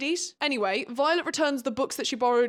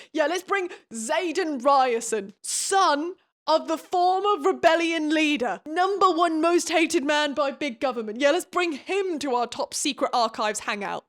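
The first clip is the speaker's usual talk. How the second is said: sarcastic; 4 semitones higher, 4 dB louder than usual. Real, not acted. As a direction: sell the bad idea with biting sarcasm. Sarcastic mock proposal.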